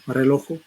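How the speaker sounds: "Relojo" with an added o after the j; inserted final o. Shown as a demonstration. Teacher demonstrating the inserted vowel in "Relojo". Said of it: "una vocal O se está insertando ahí".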